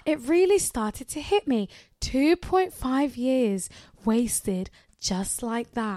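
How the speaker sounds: slowed-down theatrical storytelling; slow dramatic read. Shown as a demonstration. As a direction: stretch each word for drama. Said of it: "A feeling I don't care about anymore".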